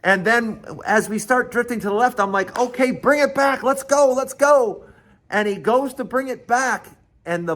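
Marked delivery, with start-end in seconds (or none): 2.6-4.9 higher-pitched, hurrying your teammate along; retold mid-race prodding; urgent urging. Urging brother to turn back.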